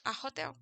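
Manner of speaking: "hotel" with the H sounded like a Spanish J; English "hotel", H clearly pronounced; aspirated H. Shown as a demonstration. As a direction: say "a hotel" with an audible, breathed H at the start of "hotel". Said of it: "el A H en inglés suena como una J".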